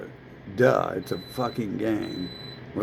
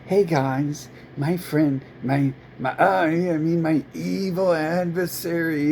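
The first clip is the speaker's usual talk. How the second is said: lightly higher, slightly louder mock voice; hammed-up mock appeal, a touch higher; mocking silly voice; 3 semitones higher, 3 dB louder than usual. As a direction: parody a fundraiser with a hint of a put-on voice. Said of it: "just say it in a vagina voice".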